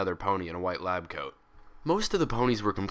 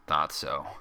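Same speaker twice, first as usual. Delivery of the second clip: low, sulky grumble; resigned mutter under the breath; grumbled; 5 semitones lower than usual. Acted. Twilight grumbling at Pinkie, low and sulky. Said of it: "she grumbled".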